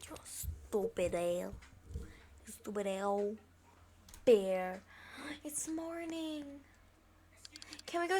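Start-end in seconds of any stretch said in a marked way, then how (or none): 0.1-4.8 whisper. Real, not acted. Whispered insult. 5.5-6.4 slow hushed whisper; slow morning whisper. Real, not acted. Whispered wake-up.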